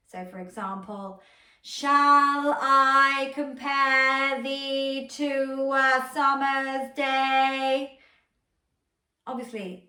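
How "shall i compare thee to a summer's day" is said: stretched long. Shown as a demonstration. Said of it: "extending the duration of that line".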